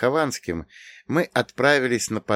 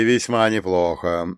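satisfied; 2 semitones lower than usual. Acted. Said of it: "довольно произнёс Прокоп".

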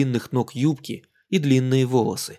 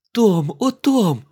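high, loud joyful reunion cry; 8 semitones higher, 5 dB louder, much slower than usual. Acted. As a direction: cry out his name in delight. Радостная встреча с Томом. (радостный возглас при встрече)

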